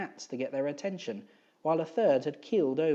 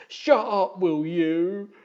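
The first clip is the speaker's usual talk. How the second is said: loud high yell; 5 semitones higher, 9 dB louder, much slower than usual. Acted. Eric yelling at Gribley, a loud high yell. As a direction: bellow it to shut them up. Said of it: "he yelled".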